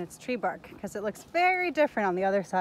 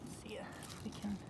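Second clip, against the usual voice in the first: whispering; 14 dB quieter than usual. Real, not acted. Creeping up on a creature.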